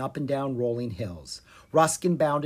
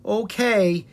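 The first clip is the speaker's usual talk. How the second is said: drawn-out, higher reluctant agreement; 7 semitones higher, 5 dB louder than usual. A narrator's reading. Prince with no choice agrees to play, reluctantly. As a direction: give in unwillingly. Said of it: "he said reluctantly".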